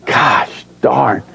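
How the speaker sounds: mock exasperated shout, played for laughs; mock outburst. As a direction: fake a frustrated outburst. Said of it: "give someone a piece of their mind".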